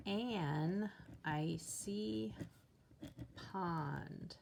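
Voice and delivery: drawn out "an icy pond"; teacher stretches "an icy pond" while writing; slow dictation. Shown as a demonstration. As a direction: say it very slowly as you write it. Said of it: "ready to rewrite my sentence".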